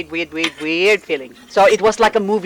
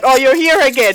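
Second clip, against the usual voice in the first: casual greeting; 6 semitones higher, 4 dB louder, faster than usual. Retold or imitated. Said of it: "Something like that".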